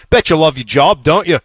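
mild mock bark at someone; retold jeer, lightly pushed; retold taunting bark. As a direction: toss it out as a taunt. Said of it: "kinda barked at a dude and said".

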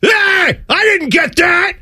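high, drawn-out mocking whine; mock whiny loser.

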